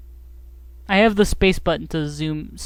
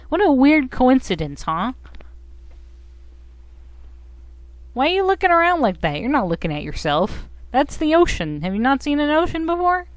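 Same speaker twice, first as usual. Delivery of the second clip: swooping high game-character voice; quick bursts that leap up, then drop; teasing creature partner; 5 semitones higher than usual. Acted. Partner questions the weird stranger, high teasing voice.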